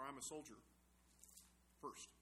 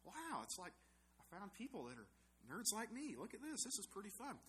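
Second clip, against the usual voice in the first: excited thought; 7 semitones higher than usual. Retold or imitated. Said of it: "and I thought".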